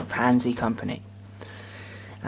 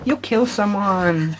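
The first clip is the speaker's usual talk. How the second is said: slow mock Sean; 5 semitones higher, much slower than usual. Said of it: "Sean went".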